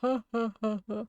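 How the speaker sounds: mock monster belly laugh; hammed-up creature guffaw; bellowing laughter. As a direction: laugh in big separate ha-ha-has. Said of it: "bellowing laughter".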